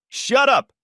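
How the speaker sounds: shrill-high furious shout, loud. A narrator's reading. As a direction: snap it at him in rage. Miranda screaming at Danny.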